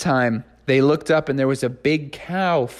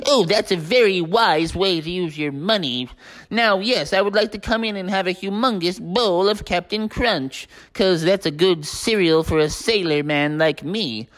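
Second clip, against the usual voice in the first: lightly voiced pirate sailor, chummy and pleased; a hint of a jolly old sailor ordering breakfast; pirate Smee voice. Narrator voicing Smee ordering cereal, light pirate voice.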